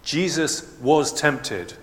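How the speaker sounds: slow, weighty "was tempted"; stress on was. Shown as a demonstration. Preacher insisting Jesus "was" tempted, slow and stressed. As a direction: press down on "was". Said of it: "I know he's God, but he is also fully man".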